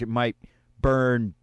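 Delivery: halting, with pauses before the last words; losing confidence. Retold or imitated. Cops warning students about a rooftop barbecue, losing confidence. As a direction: imitate a warning that falters word by word. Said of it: "they lost confidence as they were saying it".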